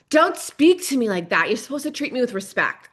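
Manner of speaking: mock a harsh demanding parent; strict parent. Mother modelling the scolding she avoided, mock stern. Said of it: "I didn't model".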